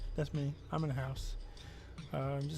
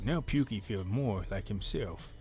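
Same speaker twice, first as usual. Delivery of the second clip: lower, gruff-ish character voice; Pukey Pete voice; 4 semitones lower than usual. Acted. Streamer resets into Pukey Pete's voice, lower. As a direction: drop into the dumpster guy's voice. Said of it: "let me get my voice".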